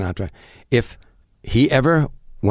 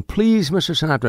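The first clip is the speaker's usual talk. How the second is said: mock hollered plea; 8 semitones higher than usual. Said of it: "she kept hollering".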